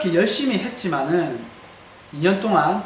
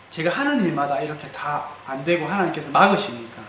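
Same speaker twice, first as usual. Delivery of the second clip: mildly pleading complaint to God, pressing on key words; retold protest; 4 dB louder than usual. Believer remonstrating with God over repeated failures, retold protest. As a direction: retell an aggrieved challenge with a raised voice at first. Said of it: "하나님한테 참 따지기도 많이 따졌습니다".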